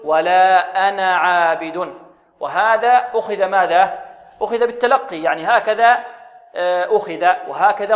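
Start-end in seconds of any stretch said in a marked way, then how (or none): 0.0-1.9 slow ولا أنا عابد with short na in أنا; alif dropped. Shown as a demonstration. Teacher gives the correct joined reading, slow chant. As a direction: recite slowly, أنا ending short before a long عابد. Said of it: "بل نحذفها ونقول".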